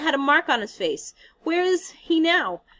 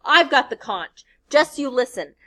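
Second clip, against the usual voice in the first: lost his temper; 3 semitones higher, 8 dB louder than usual. Acted. Piggy scolding the giggling boys, furiously loud. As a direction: blast them with his rage. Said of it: "Piggy lost his temper".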